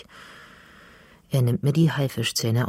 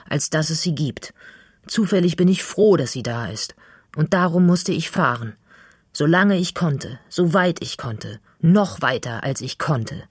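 impassioned plea; 4 semitones higher than usual. Acted. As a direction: pour it all out in one breath. Passionate plea to Finley's mother. (Mädchen verteidigt Finley leidenschaftlich vor seiner Mutter)

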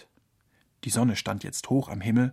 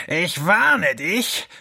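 slow, menacing fox snarl, higher; hissed warning; 4 semitones higher, 4 dB louder, much slower than usual. A narrator's reading. Fox threatening the ringing clock, slow snarl. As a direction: drag out the threat. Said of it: "fauchte der Fuchs".

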